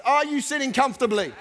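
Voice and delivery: said with an audible smile, friendly. Shown as a demonstration. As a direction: smile through the question. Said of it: "say it with a smile on your face".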